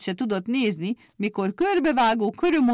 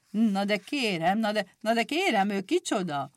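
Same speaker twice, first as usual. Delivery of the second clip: flustered stammer; 2 semitones higher than usual. Acted. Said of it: "hebegve és megrőkönyödve".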